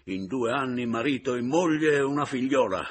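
high, forceful accusation; indignant scolding. Acted. Returned husband berates remarried wife and rival, indignant. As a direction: shame them with rising indignation.

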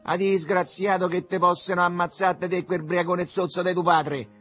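loud, high-pitched cursing; mother yelling. A narrator's reading. Mother curses her son from the kitchen, yelling. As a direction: hurl the insult at full voice. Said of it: "gridava lei dalla cucina".

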